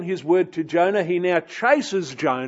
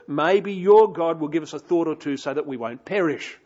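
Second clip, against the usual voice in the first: urgent captain; 3 semitones higher, 3 dB louder than usual. Retold or imitated. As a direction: rouse him with urgent alarm. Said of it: "he's saying something like".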